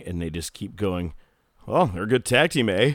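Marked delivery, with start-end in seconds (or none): 1.7-2.9 lightly hammed-up Canadian accent with rising lilt; mock Canadian. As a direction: playfully imitate chatty Canadian commentators. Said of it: "the Amazing French Canadians are coming".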